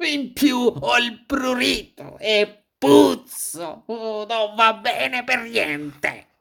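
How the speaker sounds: high, slow, whining lament; sighing dismay. A narrator's reading. Wolf caked in itchy, smelly mud, sighing lament. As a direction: open with a wail, then moan it out slowly. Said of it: "e sospirò".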